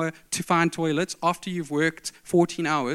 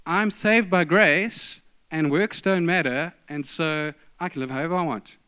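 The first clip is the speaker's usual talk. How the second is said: mock complacent claim; 3 dB louder than usual. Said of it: "the Christian version of that is".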